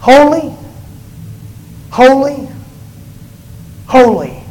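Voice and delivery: loud, spaced-out holy, each word alone; seraphim calling out. Acted. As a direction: proclaim each holy with a pause between. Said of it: "the seraphim called out to the other".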